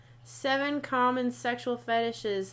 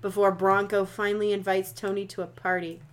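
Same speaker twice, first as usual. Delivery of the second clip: dramatic reading; 4 dB louder than usual. Acted. Reads blurb in announcer style.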